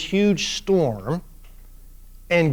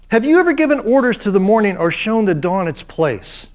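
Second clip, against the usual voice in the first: God's challenge; 3 semitones higher than usual. Retold or imitated. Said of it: "dripping with sarcasm".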